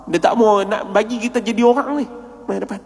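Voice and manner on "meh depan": soft, understated call forward; retold quiet summons. Teacher calls Nyum to the front, quietly retold. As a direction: imitate a teacher beckoning under the voice.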